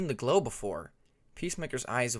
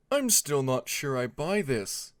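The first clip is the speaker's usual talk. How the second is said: skeptical Alligator; 3 dB louder, slower than usual. Acted.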